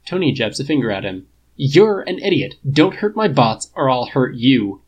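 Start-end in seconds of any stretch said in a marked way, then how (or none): 1.6-4.8 loud, slowed-down warning; angry threat. Acted. Tony threatens Clint over his bots, loud and slow. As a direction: spit the threat out slowly and loud.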